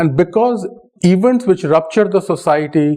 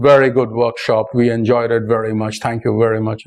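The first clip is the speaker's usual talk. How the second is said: flat German monotone; 3 semitones lower than usual. Retold or imitated. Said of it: "The German says".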